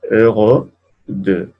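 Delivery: Euro de said slowly with the rounded eu; slow French demo. Shown as a demonstration. Teacher repeating the words slowly for students, careful. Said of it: "pero un poquito más E".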